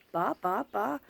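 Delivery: light repeated ba syllables, like her daughter; gentle imitation of a nonverbal child's babbling; imitating Chloe's babble. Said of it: "'cause that's how she talks".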